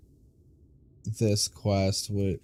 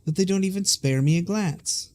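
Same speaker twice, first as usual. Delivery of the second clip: put-on Scottish accent; 6 semitones higher, 6 dB louder than usual. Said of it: "My Scottish accent is not good".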